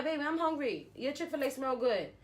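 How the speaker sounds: high, cutesy plea to her man; sweet begging. Retold or imitated. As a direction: wheedle for food in a high voice. Sweetly begging boyfriend for food.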